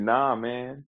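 quoted in a soft mock-Cholo accent. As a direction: lightly mimic a Cholo lilt. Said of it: "sounded real Cholo".

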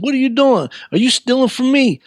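high-pitched, indignant questioning; retold accusation. Store man confronts a boy caught stuffing pockets, accusing. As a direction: act out an accuser catching a thief.

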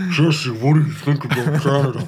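giggling while asking a joke question; laughing. Real, not acted. Joking through laughter.

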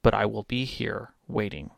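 low, quiet, measured otherworldly offer; mysterious figure. Acted. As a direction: speak softly and low with ominous pauses. Voicing a shadowy figure offering a bargain.

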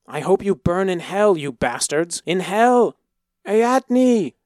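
high, loud curse breaking into cries; furious yell. A narrator's reading. Boy dragged to the block yelling at soldiers and parents, furious cries. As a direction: rage and scream for his parents. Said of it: "he yelled".

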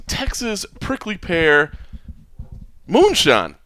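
slow, drawn-out southern Texas twang on the product name. Acted. Announcing the sponsor's moonshine in a slow southern twang. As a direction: stretch it out like a Texas drawl. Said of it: "I enjoyed the southern twang on moonshine there".

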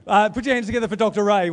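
high, loud mock Irish brogue; playful Irish leprechaun call, pitched high; leprechaun accent. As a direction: announce him like a hammed-up leprechaun. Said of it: "It's the leprechaun".

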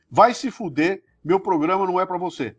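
cheerful brush-off; playful put-down; mock tender dismissal. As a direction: tell them off with a grin. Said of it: "Que é, que é um carinho".

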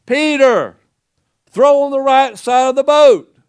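high, loud call across the water; calling out from the shore. Retold or imitated. Jesus on the shore calls to Peter in the boat, high and loud. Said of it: "he shouted".

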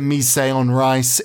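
MISE EN RICE said as "mee-say on rice"; wrong French pronunciation. Shown as a demonstration. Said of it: "How do we pronounce it?".

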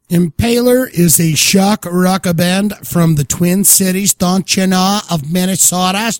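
put-on Minnesota accent. Band bio in mock Minnesota accent.

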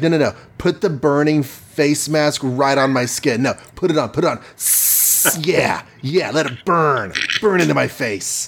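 hammed-up insistence with a hiss and laugh; mock-villain relishing the pain; lightly acted mad urging, hissing midway; fanatical Doom. Voicing Doom demanding the burning mask.

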